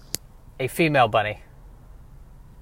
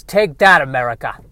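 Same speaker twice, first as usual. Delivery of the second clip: war bunny; 3 dB louder than usual. Acted. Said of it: "And War Bunny says".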